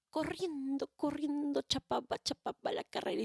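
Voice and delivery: excited narration; hurried. A narrator's reading. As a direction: race the words like running home. Narrator acts hurried running.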